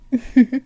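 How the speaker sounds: brief, knowing royal chuckle; short chuckle. Acted. Princess who overheard her servant singing, short knowing chuckle. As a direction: let out a small amused laugh.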